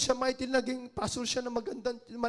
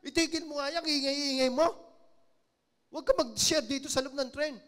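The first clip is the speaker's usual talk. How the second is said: loud, irritated scolding of a noisy stranger; angry scolding woman; 4 dB louder than usual. Retold or imitated. Woman on the train scolding the preacher, angry loud voice. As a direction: snap at him to stop the noise. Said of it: "merong isang babae nagalit sa kanya".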